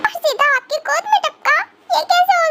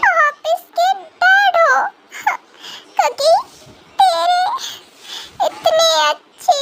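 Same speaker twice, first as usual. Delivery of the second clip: high, drawn-out tearful disbelief; heartbroken shock; 4 semitones higher, slower than usual. Acted. Woman learns her crush is a dad, tearfully stunned. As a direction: stretch it out, on the edge of crying.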